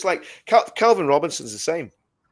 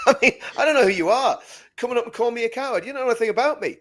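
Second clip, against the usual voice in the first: indignant retort; 9 semitones higher, faster than usual. Retold or imitated. Retort to heckler, raised voice.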